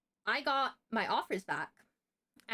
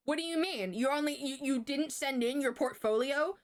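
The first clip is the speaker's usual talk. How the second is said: imitating an indignant teacher, higher-pitched; mock outraged questioning, pitched up; mad teacher; 4 semitones higher than usual. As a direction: act out a teacher's disbelieving anger. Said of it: "she got so fucking mad".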